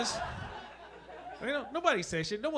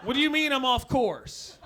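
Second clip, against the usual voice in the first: tripping runner; 6 semitones higher, 5 dB louder than usual. Acted. Tripping marathon runner voiced.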